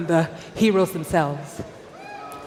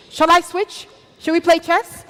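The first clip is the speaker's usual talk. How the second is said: playful teasing; 8 semitones higher, 5 dB louder than usual. Acted. Joking with winners on stage.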